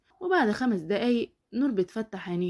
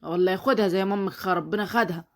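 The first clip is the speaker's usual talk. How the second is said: angry dismissal; 3 semitones higher than usual. Acted. Father throwing his daughter into the street, furious. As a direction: drive her out of the house.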